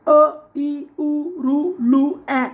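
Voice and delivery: short vowels sounded out one by one; each short vowel set apart; short vowels recited. Shown as a demonstration. Teacher lists the six short vowels, sounded out singly. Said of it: "तर ऱ्हस्व स्वर आहेत सहा".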